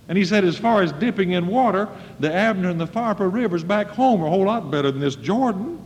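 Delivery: hammed-up outrage of a proud captain; a mild mock rage; mock angry Naaman. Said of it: "in a rage".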